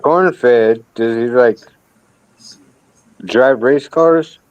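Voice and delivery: slow, deliberate sarcastic repeat. Pretend. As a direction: drag it out, teasing. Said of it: "I'm being sarcastic".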